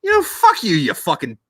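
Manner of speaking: mock-furious retort to the therapist; hammed-up hostile outburst; combative rant. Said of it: "Very combative guy".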